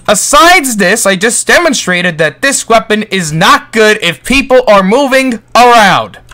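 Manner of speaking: ordinary delivery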